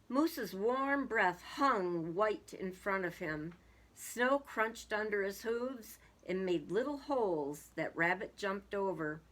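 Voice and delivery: measured picture-book reading; storybook narrator; story narration. A narrator's reading. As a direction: read it out as a story for children. Reads a story aloud.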